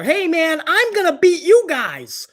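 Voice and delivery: a hammed-up bragging wrestler; mock cocky wrestler. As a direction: lampoon a wrestler's empty boast. Mocking wrestlers' entrance talk.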